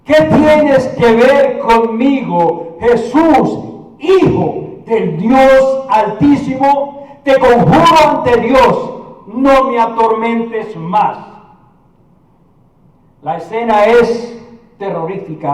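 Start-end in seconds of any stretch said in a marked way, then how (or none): 0.0-11.2 slow, emphatic challenge; lightly voiced demon pleading with deliberate weight; preacher acting out a possessed man's protest; demons' spokesman. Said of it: "habían puesto a alguien que dijera".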